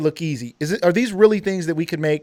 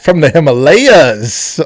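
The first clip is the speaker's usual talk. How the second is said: hammed-up quote; 8 dB louder, much slower than usual. Martin fan reference, hammed up.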